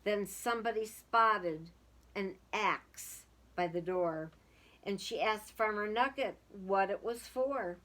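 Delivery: lively storybook reading aloud; sing-song children's story voice. A narrator's reading. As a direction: read it like a rhyming picture book to kids. Reading a picture book aloud.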